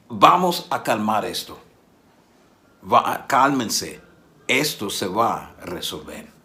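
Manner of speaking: slow, steady calming words; calm command. Retold or imitated. Jesus to the funeral procession, slow and calming.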